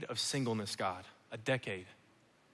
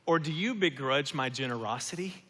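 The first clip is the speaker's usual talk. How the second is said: 1 gentle question. Acted. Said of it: "Listen to this question from Jesus".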